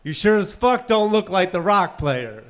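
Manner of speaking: wife's put-down. Retold or imitated. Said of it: "And she said".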